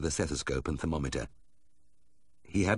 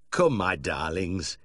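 fondly; much slower than usual. Acted. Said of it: "kissed them both fondly".

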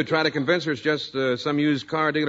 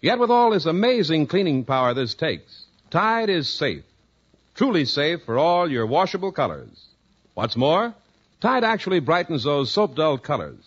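polished announcer selling soap; measured sales pitch, each phrase neatly set apart; radio ad read. Acted. Announcer sells Tide to housewives, measured commercial pitch.

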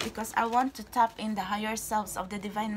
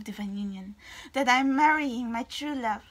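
ordinary delivery

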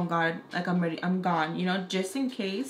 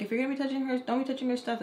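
scolding mom; 5 semitones higher, much faster than usual. Retold or imitated. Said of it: "giving her a whole spiel".

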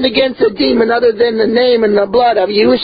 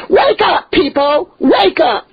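urgent call; 5 semitones higher, slower than usual. Real, not acted. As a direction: shout them awake. Preacher calling out to followers.

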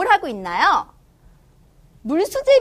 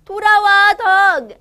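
loud, high call to come back; 6 semitones higher, 7 dB louder, slower than usual. Acted. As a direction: shout after the dog, higher. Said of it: "엄마가 부르셨어요".

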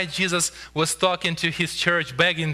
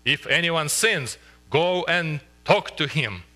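stern command. Shown as a demonstration. Preacher reading Jesus' words as a firm rule, slow and stern. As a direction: lay down the rule with no softness. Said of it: "You can take it like this".

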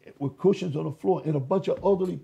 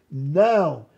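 soft hollow voice; 3 semitones lower, 4 dB louder than usual. Retold or imitated. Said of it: "hollow voice".

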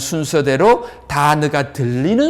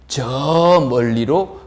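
drawn-out, slow "저"; 길게 늘이기; much slower than usual. Shown as a demonstration. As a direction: stretch "저" to show great distance. 길게 늘여 먼 거리를 표현. ("저"를 길게 늘여 먼 느낌으로)

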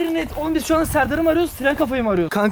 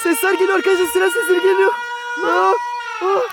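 higher, urgent panicked calling; 6 semitones higher than usual. Acted. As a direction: yell as if being chased. Monster right behind them.

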